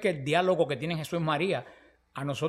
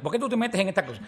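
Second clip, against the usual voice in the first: mock scolding through a laugh; playful telling-off, half laughing; teasing scold; 3 semitones higher than usual. Son teasing his mother on the phone, laughing mock scold. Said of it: "no se lo dije jugando".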